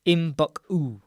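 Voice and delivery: IMBUK-U said with both Ts left out; silent T. Shown as a demonstration. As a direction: say "Imbuk-u", dropping each T sound. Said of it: "has a silent T".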